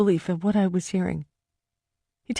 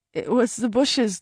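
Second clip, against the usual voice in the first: slow, pleading explanation; slow desperate plea; 4 semitones higher than usual. Acted. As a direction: drag it out, begging to be believed. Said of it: "I sounded like a loon".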